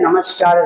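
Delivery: नमस्कार said as namashkar, with sh sound; wrong pronunciation. Shown as a demonstration. Teacher contrasting the wrong namashkar for students. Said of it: "is the wrong pronunciation".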